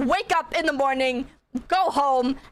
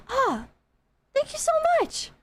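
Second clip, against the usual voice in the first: very high, melting thank-you voice; grateful old man; 12 semitones higher than usual. Retold or imitated. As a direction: squeak out heartfelt thanks up high.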